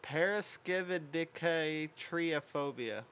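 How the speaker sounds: Paraskividicatriophobia sounded out slowly, each syllable; careful pronunciation. Shown as a demonstration. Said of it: "Say that three times fast".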